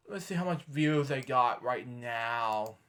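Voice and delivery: low, soft murmur; talking to oneself. Real, not acted. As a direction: murmur it while looking something up. Talking to self while searching.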